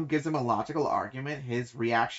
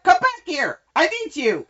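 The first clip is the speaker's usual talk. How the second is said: loud, high mock pleading shout; frantic high-pitched holler; desperate calling out; 14 semitones higher, 9 dB louder than usual. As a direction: yell after someone walking away, hammed-up. Acts Terriarch calling after her.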